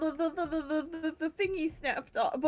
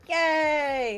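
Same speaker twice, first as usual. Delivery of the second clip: short, louder party cheer; mock cheer; 3 semitones higher, 5 dB louder than usual. The party accepts the guide's offer, cheering.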